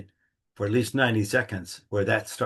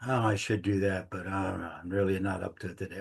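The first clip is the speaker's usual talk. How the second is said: half-hearted reluctance; 2 semitones lower, 7 dB quieter than usual. Retold or imitated. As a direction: voice the unwilling inner excuse, softly. Voicing a reluctant day.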